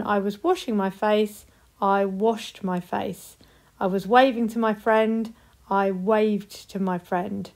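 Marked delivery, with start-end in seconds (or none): 1.8-3.4 slowed down, each word clear; slow, careful past tense. Shown as a demonstration. Teacher modelling the past tense slowly. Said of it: "put them in two sentences". 5.7-7.5 slowed down, stressing waved; slow, careful past tense. Shown as a demonstration. Teacher modelling the past tense slowly. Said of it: "put them in two sentences".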